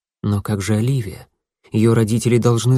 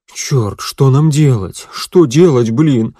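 panicked; 3 semitones higher, 5 dB louder, slower than usual. Acted. Bruno panics about what to do.

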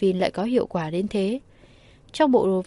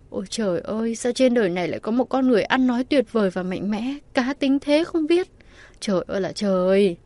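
swooning gush; 3 semitones higher than usual. Acted. Bo swoons hugging pillar.

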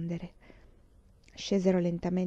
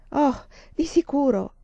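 bright eager exclamation, higher and louder; Mary cries out happily, pitched up; exclaiming; 6 semitones higher, 5 dB louder than usual. A narrator's reading. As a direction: burst out with joy at going to college. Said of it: "esclamò Mary".

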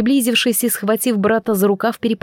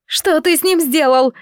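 screaming; 7 semitones higher than usual. A narrator's reading. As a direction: wail in horror. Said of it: "завопила она".

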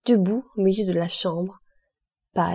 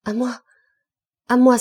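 high cry, bursting louder on the repeat; cry for help; 4 semitones higher, 5 dB louder than usual. A narrator's reading. The abbé calls Dantès as the attack begins, crying out. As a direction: call out as the seizure strikes. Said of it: "s'écria l'abbé".

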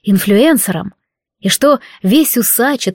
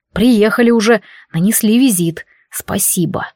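grumbling. Acted. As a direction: grumble it sarcastically. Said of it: "проворчал он".

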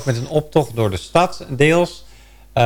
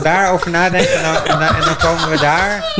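laughing through the words; chuckling while talking; 5 semitones higher than usual. Real, not acted. Jokingly postponing the debate.

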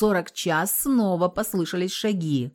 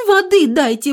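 "Воды" screamed high and loud, stretched out; desperate high shout of "Воды"; pleading shout; 10 semitones higher, 10 dB louder than usual. A narrator's reading. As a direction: yell "Воды дайте" with everything you have. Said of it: "напирала Лиска".

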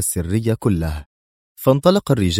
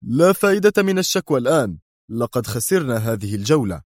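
Mr X sharp; 4 semitones higher than usual. Acted. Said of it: "قال في حدة".

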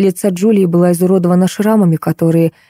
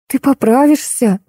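slow, higher, pity almost breaking through; almost crying; 6 semitones higher than usual. A narrator's reading. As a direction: hold back tears as you comfort her. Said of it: "чуть не заплакала от жалости Света".

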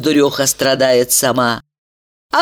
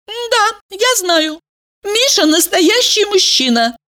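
proudly. A narrator's reading. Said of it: "гордо констатировала Валерия".

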